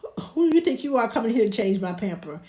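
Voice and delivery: quick, loud mock indignation; playfully outraged, rattled off fast; indignant baby's complaint. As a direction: voice an affronted baby. Voices an indignant baby.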